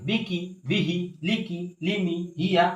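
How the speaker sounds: each short word whole, with a falling end; reading without spelling. Shown as a demonstration. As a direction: read the words straight off in an even list. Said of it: "বানান না করে".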